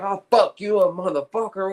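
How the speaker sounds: a touch of a retold furious snap; lightly imitating a man losing his temper; mock angry outburst. Retelling Wes Watson cursing at a guard, mild mock anger. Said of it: "this fool gets so mad".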